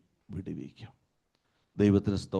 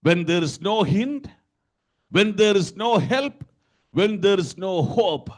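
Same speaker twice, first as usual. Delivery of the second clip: raised, ringing sermon delivery; full-force preaching; 8 semitones higher, 6 dB louder than usual. Acted. Preacher quoting the Lord's promise to the congregation, forceful preaching. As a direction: preach it out loud and high.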